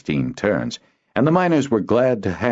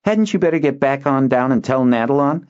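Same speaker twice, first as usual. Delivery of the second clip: put-on high, louder coaxing boy's voice; boy Kinden; 10 semitones higher, 4 dB louder than usual. Boy urging his friend to run down, coaxing. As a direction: try to push the errand off.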